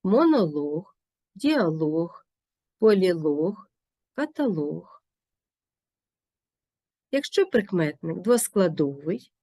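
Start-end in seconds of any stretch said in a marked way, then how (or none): 0.0-5.0 монолог, діалог, полілог, каталог with the last syllable stressed; stress on final лог. Shown as a demonstration. Teacher modelling stressed лог for learners, final-syllable stress. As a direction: lean on лог at each word's end. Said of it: "компонент є наголошеним".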